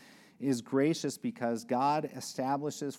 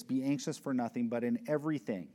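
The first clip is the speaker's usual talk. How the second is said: scripture reading; 3 semitones lower than usual. Shown as a demonstration. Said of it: "In verse six".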